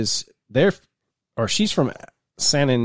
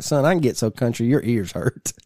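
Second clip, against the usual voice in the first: put-on country accent. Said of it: "I'll talk real country".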